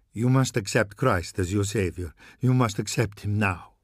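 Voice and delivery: a hint of a haunted old priest pleading; urgent priest. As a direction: press him gravely, with no time left.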